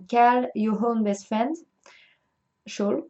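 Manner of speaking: slow English title in a French accent; real French accent on English. Real, not acted. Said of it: "avec mon super accent anglais".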